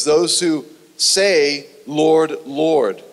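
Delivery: "Lord, Lord" set apart, each word given weight; slow "say", then a firm, separate "Lord, Lord"; emphatic quoting. Shown as a demonstration. Preacher stressing Jesus's words, emphatic on "Lord, Lord". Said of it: "We see an emphasis on these words".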